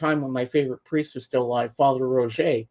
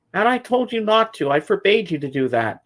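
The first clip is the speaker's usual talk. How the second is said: mad mother; 5 semitones higher than usual. Retold or imitated. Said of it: "she was so mad at me".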